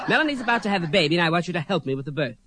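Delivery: lightly voiced Bette Davis, clipped and grand; Bette Davis as Scarlett. Drag performer does Bette Davis in the birthing scene, lightly voiced. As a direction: play a camp Bette Davis playing Scarlett. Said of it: "I did an impression of Betty".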